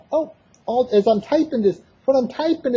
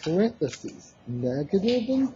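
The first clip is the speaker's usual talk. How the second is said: dictating; 5 semitones lower than usual. Real, not acted. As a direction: spell out the notation piece by piece. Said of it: "let me start typing".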